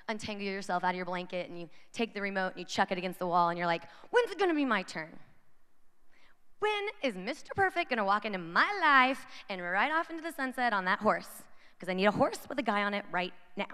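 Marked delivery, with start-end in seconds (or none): 4.1-13.7 hammed-up impatient wail; acted fed-up complaint; mock exasperated outburst. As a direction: burst out in playful romantic frustration. Acted outburst after throwing the remote.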